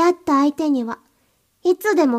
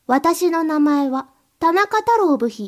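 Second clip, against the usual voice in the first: slowly spelling out 私の名前は田中太郎部費 as a model; sample slave line; slower than usual. Shown as a demonstration. Mistress demonstrating the slave's greeting, slow. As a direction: show how the slave should say it, slowly. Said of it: "って感じで言うんだぞ".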